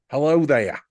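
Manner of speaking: high mock Australian voice; Australian accent. Co-hosts playing at being Australian, mock Aussie accent. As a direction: pitch it up in playful Aussie. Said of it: "We're Australian".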